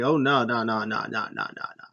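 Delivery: fading whiny no's; mock hissy fit. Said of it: "having a hissy fit".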